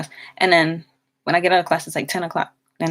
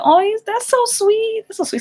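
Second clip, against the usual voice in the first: mock cooing; 4 dB louder than usual. Coworkers laughing and teasing her, in a very high mock coo.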